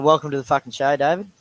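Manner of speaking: loud mock greeting. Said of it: "that's his new, uh, greeting".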